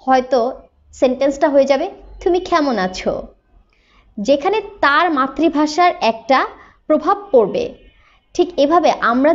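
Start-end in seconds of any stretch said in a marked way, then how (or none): 2.2-3.2 "তুমি কেমন আছো?" with an English accent, aspirated k in কেমন; English speaker's Bengali. Shown as a demonstration. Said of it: "তিনি যখন এইভাবে বলবেন".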